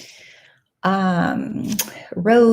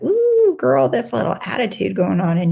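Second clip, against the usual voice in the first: sassy self-talk. Retold or imitated. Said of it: "and I was like".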